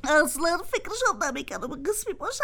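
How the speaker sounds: sobbing through the words; crying. Acted. Spoon tells friends through tears, crying. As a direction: weep as you complain. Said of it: "گریه نکن،".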